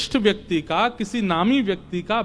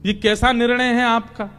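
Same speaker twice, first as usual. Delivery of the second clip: higher, insistent protest; acted exasperation; 4 semitones higher than usual. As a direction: pile up the complaints at a confusing master. Arjun protests the contradictory orders.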